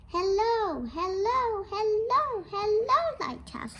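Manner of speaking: high sing-song hello calls; calling out. Acted. The light on land answering the lighthouse, high calls. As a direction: call across the bay.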